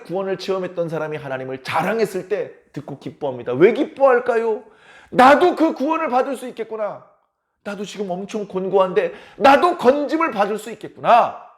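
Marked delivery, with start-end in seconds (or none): 5.1-11.5 acted dawning hope; higher, rising realisation of rescue; mildly excited, full of hope; hopeful joy. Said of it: "그런 소망을 품기 때문에".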